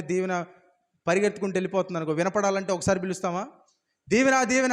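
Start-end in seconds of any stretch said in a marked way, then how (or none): 4.1-4.7 higher calling after someone running off; urgent call, pitch up; shouting a name. Shown as a demonstration. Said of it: "అని అరుస్తాం కదా".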